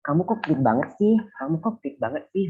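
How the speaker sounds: Javanese accent, rising on "sih"; restrained Javanese tune with a questioning "sih"; Javanese low intonation. Shown as a demonstration. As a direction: say it like a Java speaker, only lightly lifted. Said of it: "with a low intonation".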